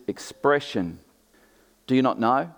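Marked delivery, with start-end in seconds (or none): 1.9-2.5 mildly sarcastic question; quoted challenge, lightly sarcastic. Retold or imitated. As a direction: ask it with a touch of sarcasm. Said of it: "can you hear the sarcasm in that".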